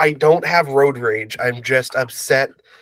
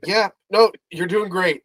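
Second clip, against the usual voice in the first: lightly voiced encouraging mom, pitched up; full mom encouragement; 5 semitones higher than usual. Imitating friend coaching a learner driver, lightly mom-like encouragement. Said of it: "he was full mom".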